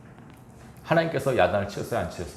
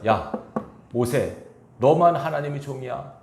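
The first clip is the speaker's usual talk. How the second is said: retold scolding; 2 semitones higher than usual. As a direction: play Aaron and Miriam mildly rebuking their brother. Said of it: "라고 야단을 쳐요". (가볍게 나무라는 말투)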